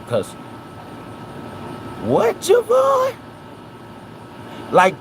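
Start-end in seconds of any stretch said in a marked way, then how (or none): 2.0-3.1 very high, drawn-out disbelieving squeal; slow, sky-high rising challenge; incredulous questioning. Real, not acted. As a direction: question him in exaggerated disbelief. Mock disbelief at Javon's evasive answer.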